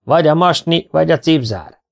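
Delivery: high-pitched exasperated retort; shouted retort. A narrator's reading. Gloved swimmer argues about knot and zip, shouting. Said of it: "kiabált Balla".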